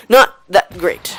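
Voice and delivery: "Not that great" slowed and stressed; slow, emphatic. Shown as a demonstration. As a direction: lean on "Not".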